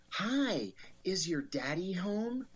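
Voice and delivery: sugary sweet voice. Retold or imitated. FBI agent at the door asks the child for daddy, mock sugary sweet. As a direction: put on a fake-friendly sweetness. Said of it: "this sugary, sweet voice say".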